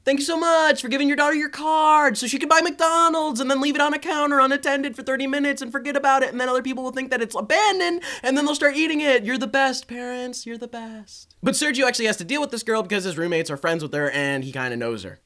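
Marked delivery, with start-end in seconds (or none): 0.0-11.4 sarcastic mock gratitude; sweet-sarcastic thank-you.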